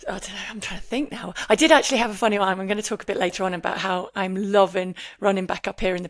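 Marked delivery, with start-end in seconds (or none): 0.1-1.3 whisper. Real, not acted. Thinking aloud for a heckle.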